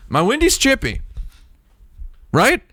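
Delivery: very high silly cutesy voice; squeaky baby talk. Pretend. Teasing viewers about his chipped windscreen in squeaky baby talk. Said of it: "silly baby-talk peak".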